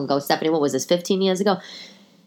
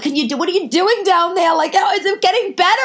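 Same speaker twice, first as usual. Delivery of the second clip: whiny high plea; 9 semitones higher, faster than usual. Retold or imitated. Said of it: "then I'm like".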